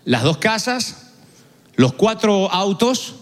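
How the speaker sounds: each item spaced out slowly; slow, deliberate list of riches. Retold or imitated. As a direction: savor every possession one by one. Listing riches slowly for effect.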